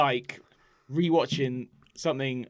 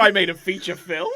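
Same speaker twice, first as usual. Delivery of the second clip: surprised; 5 semitones higher, 9 dB louder than usual. Pretend. Acting the kid's reaction.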